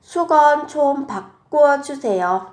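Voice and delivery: teacher modelling Korean; model Korean phrase. Shown as a demonstration. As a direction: say it for students to copy. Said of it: "Làm ơn thay khăn".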